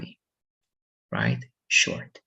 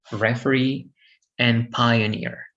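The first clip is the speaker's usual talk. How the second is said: "referee" and "pioneer" stressed on their last syllables; third-syllable stress. Shown as a demonstration. Teacher giving examples, "referee" and "pioneer" stressed at the end. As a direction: put the weight on REE and NEER in "referee, and pioneer". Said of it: "Stress the third syllable".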